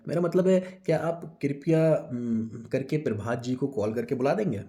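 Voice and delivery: hesitant, halting polite request; correcting himself. Acted. Assistant asks Vijay politely in Hindi, halting self-correction. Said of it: "अपने आप को correct करते हुए".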